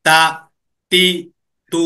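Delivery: short unstretched vowels. Shown as a demonstration. Teacher showing the student not to drag the vowels, short and quick. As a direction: clip each vowel short, no drawing out. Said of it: "টানা যাবে না".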